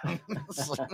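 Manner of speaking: creaky vocal fry caller; slow creaky fry voice. Pretend. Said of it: "a little bit more vocal fry".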